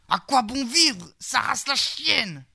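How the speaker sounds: slow, drawn-out despairing curse; despairing cry. A narrator's reading. Knight cursing his fate alone in the forest, slow despairing cry. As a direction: wail it at the sky, slowly. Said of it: "s'écria le sieur Lacaïra".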